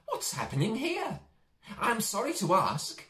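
Harry the mouse puzzled by the empty village, squeaking; little mouse voice. Acted. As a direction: ask it as a small curious mouse. Mouse Harry asks the nurse.

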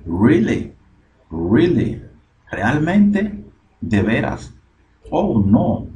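high-pitched, incredulous reaction; dismayed disbelief. Acted. Pedro reacting to the dog on the bed, dismayed disbelief. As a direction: act out an unwelcome surprise. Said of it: "A Pedro no le gustó".

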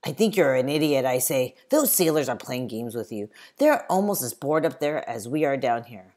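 loud annoyed lecture; exasperated scolding. Acted. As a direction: snap at him for being gullible. Samuel scolds gullible James.

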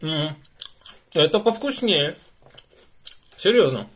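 talking while chewing chips; muffled through food; mouth full, chewing. Real, not acted. Seen 0: Bit chip at -3; chewing, lips pursed, chip held to mouth.

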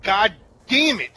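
loud frustrated curse; raging gamer. Real, not acted. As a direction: curse at the screen. Gamer losing again.

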